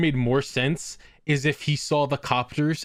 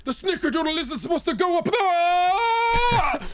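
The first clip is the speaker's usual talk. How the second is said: very high, drawn-out cry; hammed-up victim howling in distress; mock agonized wail; slower than usual. Acting Grandpa in mock agony.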